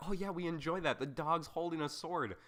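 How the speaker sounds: high, gushing mock approval; mocking the people who love it; mock fan voice. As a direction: pitch up like a delighted fan. Mock fans approving weird combo.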